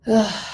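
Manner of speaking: heavy groaning sigh, "ugh"; exasperated sigh. Real, not acted. Reliving the loss, exasperated.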